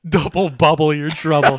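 slowly savoring the line; savoring quote. Real, not acted. Friend repeats the catchphrase, relishing each word. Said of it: "That was fucking good".

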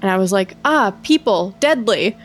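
brisk, low-key first-person storytelling; story read aloud. Acted. Host reads co-host an eerie forest tweet, story read aloud.

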